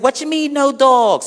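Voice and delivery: high, slow, indignant; high indignant protest. Acted. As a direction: squeal it in disbelief. Guy protests the dog ban.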